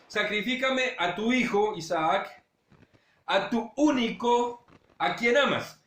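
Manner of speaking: slow and tender, dwelling on único; heartfelt plea. Retold or imitated. God asks Abraham tenderly for his beloved son. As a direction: move him with love for his only son. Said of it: "le toca las, las fibras emocionales".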